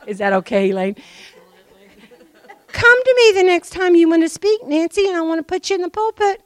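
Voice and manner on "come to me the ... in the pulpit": quoting pastor excitedly. Retold or imitated.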